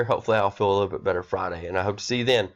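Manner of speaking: blocked nose from a cold; talking through a stuffy nose; nasally voice. Real, not acted. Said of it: "my nasally voice through here".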